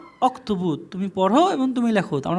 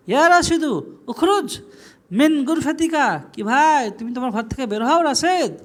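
higher-pitched demonstrated command; calling out an order; 5 semitones higher than usual. Shown as a demonstration. Teacher tells Rashed to leave his room, calling out. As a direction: call him out insistently.

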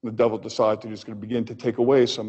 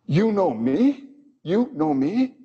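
incredulous echo; 6 semitones higher, slower than usual. Retold or imitated. God echoing Job's words.

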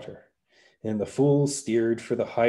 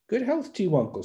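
the fool greeting; 9 semitones higher, faster than usual. A narrator's reading.

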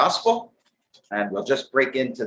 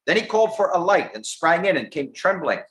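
higher, lilting Bible narration; scripture reading; 5 semitones higher than usual. Real, not acted. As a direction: read the verse out to the congregation. Reads scripture aloud.

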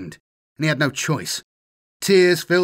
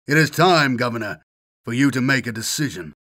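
icy calm menace. Acted. Assassin coldly presses the governor to decide, icy calm. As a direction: menace him gently while offering a way out. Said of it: "His voice was icy calm, at the same time menacing".

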